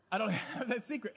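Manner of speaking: laughing through the line; admitting with a laugh. Real, not acted. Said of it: "And we laugh".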